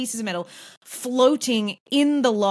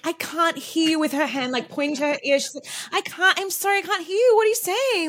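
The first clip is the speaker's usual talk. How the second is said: mock deafness; 7 semitones higher than usual. Imitating Sonia faking deafness at the table, high and hammed-up. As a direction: pretend you can't hear them. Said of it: "she's, like, miming".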